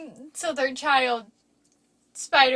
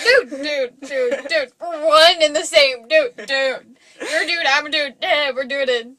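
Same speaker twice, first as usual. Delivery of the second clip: surfer dude. Retold or imitated. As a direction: draw out each "dude" like a surfer. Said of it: "like, Surfer Dude".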